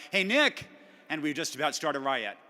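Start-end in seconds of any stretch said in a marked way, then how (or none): 0.1-0.7 high, loud mock call across a market; retold yell. American spotting a friend across the market, imitated yell. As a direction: imitate someone yelling a greeting from afar. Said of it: "yell across the market".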